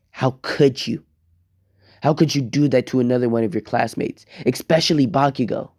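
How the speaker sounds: a touch of parental outrage; appalled scolding. Acted. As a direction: scold your son in disbelief. Frowning parents scold their son.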